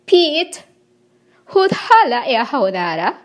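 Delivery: shows how "hudhala e haudara" is spoken in heaven; a spoken phrase in an invented tongue; speaking the heavenly language. Shown as a demonstration. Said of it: "This is how we speak".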